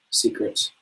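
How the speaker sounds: breathy whispered echo of the word, hammed-up; mock dramatic whisper. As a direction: whisper it like a spooky secret. Echoing the secret dramatically.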